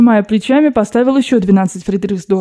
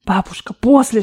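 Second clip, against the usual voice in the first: plain reading voice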